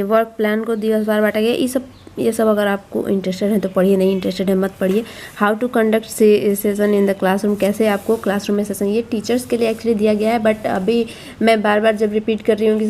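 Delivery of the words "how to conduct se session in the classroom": reads the English heading out slowly, word by word; slow reading aloud. Shown as a demonstration. Teacher reading a book heading to parents, slowly. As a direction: sound each word out carefully for parents. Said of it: "reading out the book's heading".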